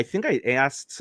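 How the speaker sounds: slipping into a Midwestern accent; casual Midwestern twang on the words. Real, not acted. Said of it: "I don't know why I sounded so Midwestern there".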